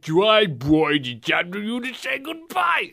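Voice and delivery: put-on garbled baby-talk villain, climbing high; mock baby talk. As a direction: imitate a villain cooing at a baby. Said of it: "It sounds like he's talking to a baby".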